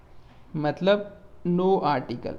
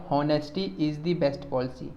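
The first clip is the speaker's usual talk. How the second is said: slow dictation; much slower than usual. Shown as a demonstration. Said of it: "इसमें आएगा".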